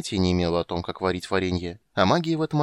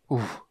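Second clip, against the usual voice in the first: relieved sigh; 2 semitones higher than usual. Acted. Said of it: "вздохнул Барт".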